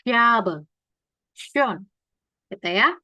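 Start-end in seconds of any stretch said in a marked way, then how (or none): 0.1-1.8 "Schabe", "Schön" starting with sh. Shown as a demonstration. Teacher giving S C H examples, clear sh onset. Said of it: "Kayak S Y".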